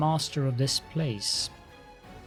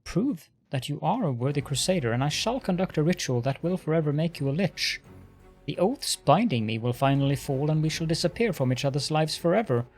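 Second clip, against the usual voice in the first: irritated lich. Acted. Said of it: "The Lich exclaims in irritation".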